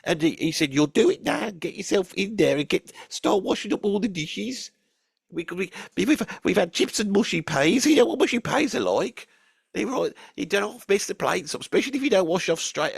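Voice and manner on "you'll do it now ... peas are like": bossy mum. Retold or imitated. Mum ordering Tony to wash up.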